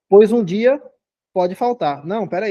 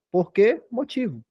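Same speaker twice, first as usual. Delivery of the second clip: slow, quieter, porquê lightly stressed; slow demo; 4 dB quieter, slower than usual. Shown as a demonstration. Teacher modelling the substitution test for students, slow and stressed. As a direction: say "Porquê motivo" slowly as a model phrase. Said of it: "troca por porquê motivo".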